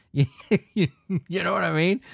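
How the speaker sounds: breathless after a long rant; gasping out the last words; out of breath. Real, not acted. Out of breath after ranting at the article. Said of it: "I ran out of breath there".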